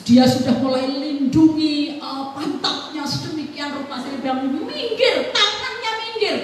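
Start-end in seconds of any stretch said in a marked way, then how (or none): 4.5-6.4 sharp order. Retold or imitated. Mother orders hands away.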